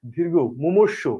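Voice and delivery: slow, careful teacher reading; measured classroom dictation; slow spelling demo. Shown as a demonstration. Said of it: "এটা হচ্ছে মনে রাখার technique".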